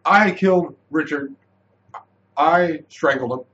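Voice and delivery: imitating a blunt confession, straight to the point; flatly matter-of-fact. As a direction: state each fact as no big deal. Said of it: "just so flatly".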